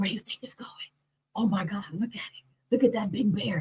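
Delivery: hushed, soft whisper. Recounting whispering in the car while watching a bear, retelling a whisper. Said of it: "we're all in the car whispering like".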